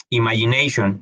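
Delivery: Imagination said in full, plain pace; English word demo. Shown as a demonstration. Teacher models the word for students. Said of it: "Sonido de la O".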